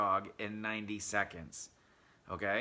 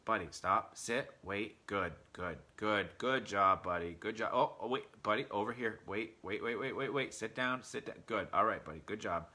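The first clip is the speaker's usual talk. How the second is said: imitating a chatty dog owner; 2 semitones lower than usual. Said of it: "You think about all that talking".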